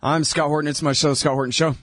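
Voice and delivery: hoarse from illness; worn voice from a cold; sick voice. Real, not acted. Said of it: "my voice sounds like this 'cause I'm sick".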